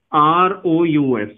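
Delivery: letters spaced out very slowly, one by one; slow spelling out. Shown as a demonstration. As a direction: dictate the letters slowly like a teacher. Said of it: "फास्फोरस एसिड".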